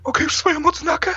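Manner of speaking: high, eager kid asking for a badge; childish pleading. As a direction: beg sweetly like a little scout.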